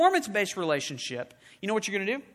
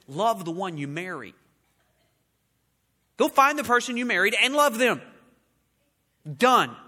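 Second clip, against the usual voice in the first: louder, punchy and final; firm declaration; 5 dB louder than usual. Acted. Preacher declares the grace view to the congregation, louder. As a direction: land it with a firm final done.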